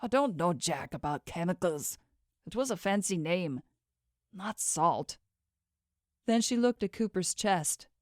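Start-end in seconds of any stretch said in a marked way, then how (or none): 0.0-5.2 slurring, weak and groggy; words slur together, drowsy; slurred speech. Acted. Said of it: "Cooper's voice was slurred".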